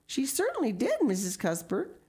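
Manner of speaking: earnest daughter. A narrator's reading. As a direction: back your mother up eagerly. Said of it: "corroborated Flora Jane earnestly".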